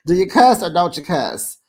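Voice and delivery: loud teasing challenge. Real, not acted. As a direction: call her out playfully. Mocking challenge.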